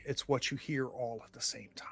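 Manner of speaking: eerie whispered narration. Acted. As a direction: hush it, spooky. GM sets eerie scene.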